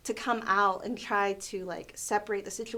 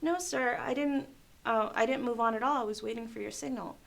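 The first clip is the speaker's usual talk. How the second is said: polite, gently pleading explanation; mildly sweet, deferential retold reply; speaking sweet. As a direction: explain yourself sweetly to a cross customer. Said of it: "I try to speak sweet to them".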